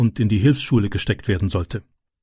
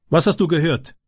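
a higher, pushy challenge; challenging; 5 semitones higher than usual. A narrator's reading. Gang leader Tyke challenges the hidden boy, challenging. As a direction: demand it, daring him to lie. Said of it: "fragte Tyke herausfordernd".

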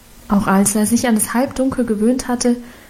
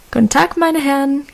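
cheerful greeting; 4 semitones higher than usual. Acted. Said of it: "grüßte sie munter".

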